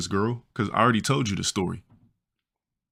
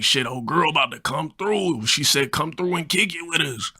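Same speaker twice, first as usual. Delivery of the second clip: friend's voice; 7 semitones higher than usual. Retold or imitated. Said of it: "Yeah, that's how he talked".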